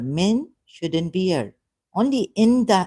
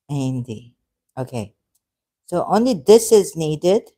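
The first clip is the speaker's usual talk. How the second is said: usual speaking voice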